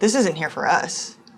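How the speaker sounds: plain, simple, matter-of-fact delivery. A player voicing her character answering a companion, matter-of-fact. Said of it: "just factually".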